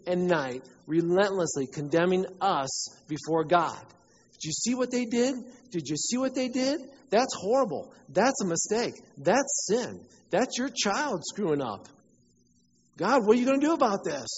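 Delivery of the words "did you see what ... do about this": a whining accuser tattling to God; accusing Satan. Acted. Satan accusing believers before God, high and whiny.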